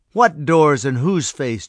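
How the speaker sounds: slow, loud scoff; mock the offer with slow disdain; a loud, drawn-out sneering question. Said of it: "George scoffed".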